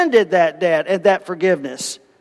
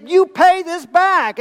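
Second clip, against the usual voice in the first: stern demand; 11 semitones higher, slower than usual. Acted. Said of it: "And he said".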